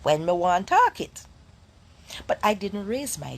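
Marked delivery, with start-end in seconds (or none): 0.0-1.2 Jamaican patois. Shown as a demonstration. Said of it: "nothing wrong with speaking patois".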